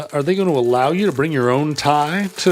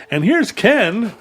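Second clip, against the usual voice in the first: Ken's part; 9 semitones higher, 5 dB louder, slower than usual. Pretend. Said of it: "read both parts".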